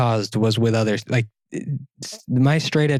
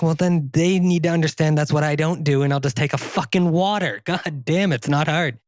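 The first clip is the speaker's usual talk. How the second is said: mock rage; 4 semitones higher than usual. Husband to wife about refusing wine, retold exasperation. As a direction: insist with worked-up irritation. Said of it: "You hear that rage?".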